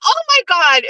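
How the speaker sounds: high squealing "Oh my God"; squealing delight. Retold or imitated. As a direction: squeal like Miss Piggy over treasure. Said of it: "I went".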